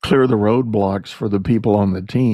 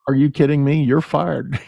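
mock outrage; 4 semitones higher than usual. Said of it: "owners that I've known that would say".

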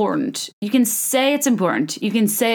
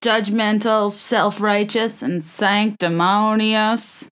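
slow, drawn-out imitation of a reality star; Thomas Ravenel impression; slower than usual. Reality star scolding everyone at a dinner party, slow mock pronouncement. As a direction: lightly imitate him, stretching out each word. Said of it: "He was like".

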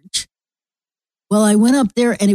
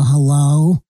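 radio caller voice; 3 semitones lower than usual. Retold or imitated. Calling two Missouri hosts, teasing radio hello. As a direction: pipe up like a radio regular. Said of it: "I called them and go".

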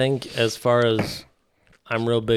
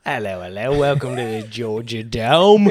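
mock British announcer welcome; British-accented Southerner; 4 semitones lower than usual. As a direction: put on a playful British accent. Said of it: "had British accents".

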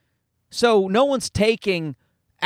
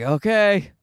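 high, slow mock-weary grandparent voice; imitating grandparents bracing for gifts; 10 semitones higher, slower than usual. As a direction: sigh it out like tired grandparents buried in presents. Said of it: "They're just like".

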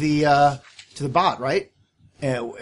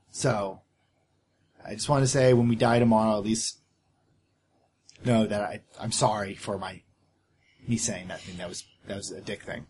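sincere heartfelt confession; 3 semitones lower than usual. Acted. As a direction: open up to a friend before the battle. In-character heartfelt apology at night.

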